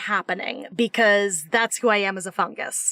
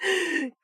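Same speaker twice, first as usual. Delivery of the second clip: burst of laughter; 6 semitones higher, 6 dB quieter than usual. Real, not acted. Laugh after teasing the pet.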